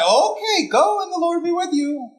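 mock blessing dripping with sarcasm; sarcastic. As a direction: say it like you doubt he'll come back. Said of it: "if he said it sarcastically".

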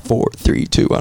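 understated imitation of an automated count-in; lightly voiced computer countdown; computer-generated voice. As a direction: count like a machine, softly. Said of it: "a computer-generated voice".

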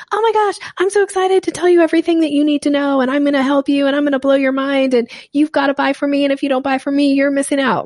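high, eager pushy salesperson voice; dog-calling energy. Retold or imitated. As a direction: gush at them like calling a dog. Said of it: "dog calling energy".

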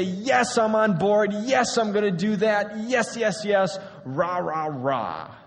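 hammed-up rah rah; eager cheer. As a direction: cheer yes like a pep rally, then fade. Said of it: "And we say".

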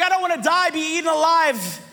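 hammed-up fright; mock panic. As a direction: act out a comic fear of being eaten. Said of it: "I'm, like, panicking".

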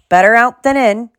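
jolly and booming, like a big friendly man; cheerful. A narrator's reading. Hagrid cheerfully tells Ron to get it out. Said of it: "he said cheerfully".

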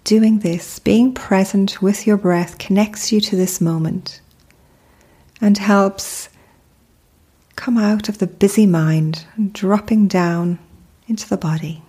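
calm, unhurried meditation guide with long pauses; measured, soothing mindfulness narration; guided meditation. Acted. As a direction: lead the listener gently into stillness, pausing between phrases.

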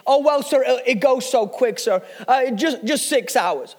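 imitated smooth-talking American salesman; amateur American accent. Salesman admits the presentation's length, imitated American accent. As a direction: play down the catch in a put-on American accent. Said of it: "now forgive my American accent".

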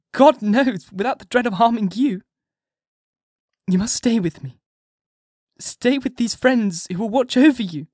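cling to him and beg; a wife begging her husband not to leave her; frantic cry. A narrator's reading. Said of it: "seized hold of him and cried out".

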